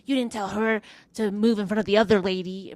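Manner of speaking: mock indignant grumble; bitching. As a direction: imitate someone complaining on and on. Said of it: "she just still kept bitching".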